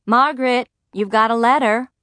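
mother calling from another room. A narrator's reading. Mother calls Margaret from the studio, calling out. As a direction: raise the voice a little, calling to someone. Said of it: "my mother called from the studio".

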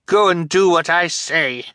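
high, loud command through tears; tearful order. Acted. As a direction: order them off, near tears. Fiona orders, crying.

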